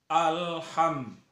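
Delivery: "alham" cut short as in the common mistake; wrong clipped alham. Shown as a demonstration. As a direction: say "alham" clipped, the way people misread it. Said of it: "Banyak orang membaca alham".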